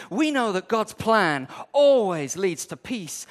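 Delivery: hammed-up promise of riches; Joel Osteen. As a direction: sell the blessing like a prosperity preacher. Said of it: "He says".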